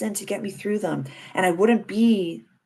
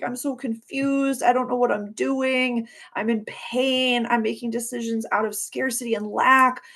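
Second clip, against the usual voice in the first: high, distressed voice of a past self; mildly acted tearful confusion; imitated crying; 5 semitones higher than usual. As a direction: plead it higher, as if upset. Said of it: "I just feel her crying, being like".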